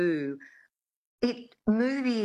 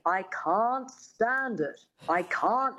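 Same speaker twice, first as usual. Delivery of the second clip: slow dialect coach modelling mid-Atlantic vowels; measured mid-Atlantic elocution; mid-Atlantic accent; 3 semitones higher, slower than usual. Retold or imitated. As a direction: demonstrate careful mid-Atlantic speech, slowly. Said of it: "her dialect coach says".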